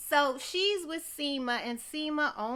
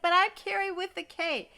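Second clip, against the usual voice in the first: chirpy planner; 8 semitones higher, 4 dB louder than usual. Retold or imitated. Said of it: "She's like".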